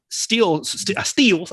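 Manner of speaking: slight Texan twang on "steals"; Texan-tinged "steals", stumbled over; Texan accent. Real, not acted. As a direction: let Texan vowels slip into "steals". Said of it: "there's my Texan accent came out".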